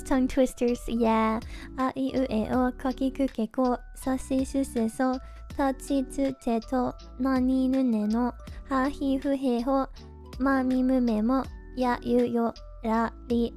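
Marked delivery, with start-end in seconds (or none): none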